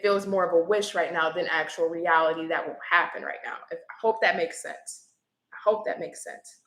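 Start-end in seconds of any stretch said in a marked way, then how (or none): 5.5-6.6 breathy whisper, softer; whispered aside. Real, not acted. Reader murmurs the check again to herself, whispered. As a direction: repeat it to yourself under your breath. Repeats line under her breath.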